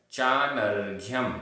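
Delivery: चानर्घ्यम with र sounded before a half घ joined to य; distinct चानर्घ्यम with a clear rgh-y cluster; pronunciation demo. Shown as a demonstration. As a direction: say चानर्घ्यम carefully, the reph r leading into ghyam. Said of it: "आधा घ".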